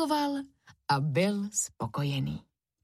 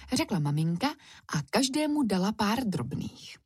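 plain reading voice

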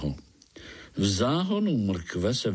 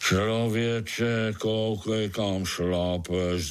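grumbling; much slower than usual. Acted. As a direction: grumble it out in the dark. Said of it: "zabručel někdo v té tmě".

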